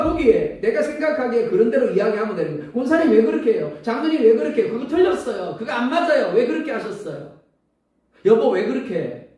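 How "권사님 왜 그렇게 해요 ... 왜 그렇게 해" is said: nagging reproach. Acted. Scolding church elders and spouse.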